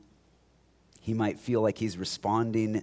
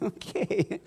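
mock unimpressed okay; 11 semitones higher than usual. Mock reply to mystery cult.

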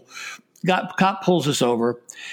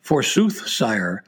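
slow, lightly hammed olde English fair worker; mock Renaissance herald; 2 semitones lower, slower than usual. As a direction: play the fair worker with slow courtly words. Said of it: "the guy who's taking the money says".

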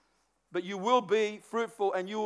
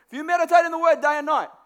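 loud, forceful proclamation; declaring scripture with full force; proclaiming God's command; 5 semitones higher, 6 dB louder than usual. Acted. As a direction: boom it out like a divine order. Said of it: "that's exactly how he says it".

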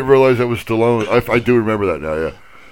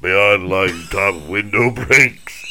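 Stallone reading Shakespeare; 2 semitones lower, much slower than usual. Pretend. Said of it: "I couldn't do it straight".

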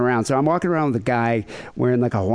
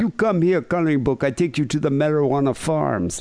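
mock Jamaican accent; 4 semitones higher than usual. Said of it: "one guy was like".

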